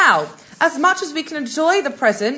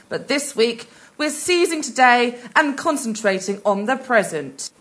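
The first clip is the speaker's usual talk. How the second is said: put-on breathy, old-Hollywood hostess purr; breathy vintage purr. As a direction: purr the welcome like a vintage starlet. Sultry hostess welcome.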